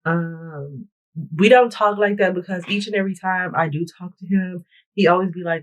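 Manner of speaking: ordinary talk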